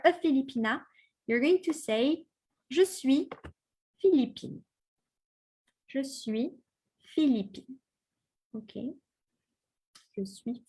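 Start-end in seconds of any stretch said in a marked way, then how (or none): 2.7-4.6 Philippine with the final N sounded, ending in a clear "-ine"; Philippine, final consonant sounded; feminine Philippine. Shown as a demonstration. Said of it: "You have to pronounce the E". 5.9-7.8 Philippine with the final N sounded, ending in a clear "-ine"; Philippine, final consonant sounded; feminine Philippine. Shown as a demonstration. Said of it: "You have to pronounce the E".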